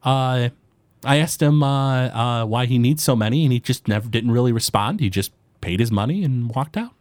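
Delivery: a small forest gnome greeting a customer; gnome baker. Acted.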